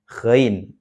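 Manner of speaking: ghain with a buzzed upper-throat gh; snore-placed GHAIN. Shown as a demonstration. Teacher showing the place, ghain with snore-like gh. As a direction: rasp into ghain from the snoring spot. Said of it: "di situ tempatnya".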